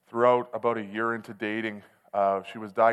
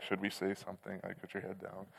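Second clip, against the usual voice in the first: hushed inner thought; 3 semitones lower, 16 dB quieter than usual. Retold or imitated. Awkward run-in at Walmart.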